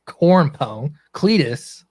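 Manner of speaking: trying on a redneck character voice; put-on country redneck accent. Player practising for the card game, redneck accent. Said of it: "I'm getting in character here".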